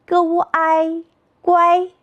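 "歌乌ai乖" slowly chanted high and level; slow three-part blend "歌乌ai乖", all first tone; pinyin blending. Shown as a demonstration. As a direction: sound out "歌乌ai", then join as "乖" on one high note. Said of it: "三拼音节".

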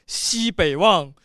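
measured, declaimed recitation with long held line endings; 诗词朗诵. Shown as a demonstration. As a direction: recite the ci formally, pausing between phrases. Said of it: "你试一下". (豪放地朗诵宋词)

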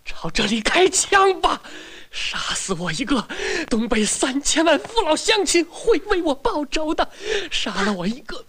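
hammed-up patriotic speech; mock solemn oration; mock heroic farewell. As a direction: declaim like a martyr, slow in places.

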